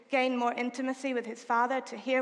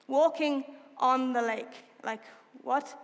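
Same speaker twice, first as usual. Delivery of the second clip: incredulous repeat. Real, not acted. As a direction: draw out the words in disbelief. Marveling at the verse.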